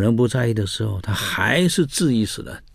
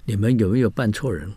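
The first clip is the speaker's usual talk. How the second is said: ordinary delivery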